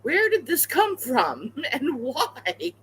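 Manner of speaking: high, slow, baffled question; incredulous. Retold or imitated. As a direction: ask it in disbelief, laughing. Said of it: "I'm like".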